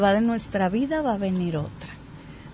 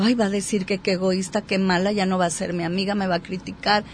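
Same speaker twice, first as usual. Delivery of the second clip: quick, hushed worried self-talk; anxious inner voice; 2 semitones lower, 5 dB quieter, faster than usual. Retold or imitated. Worrying to herself about refusing a friend, quick and hushed. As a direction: rattle off the fears under your breath, fast. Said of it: "viene todo eso".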